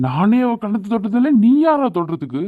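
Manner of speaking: high-pitched jealous outburst; angry. Acted. Jealous husband to his wife's friend, angry challenge. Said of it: "நீங்க ஏன் இவ்வளவு கோவப்படுறீங்க".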